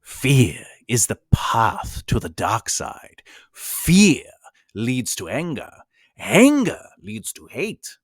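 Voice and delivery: a slow, lightly voiced Yoda quote; hint of Yoda, slowed and weighty. Teacher quoting Yoda to writers, slow hint of Yoda. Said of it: "Some examples of repeating is Yoda".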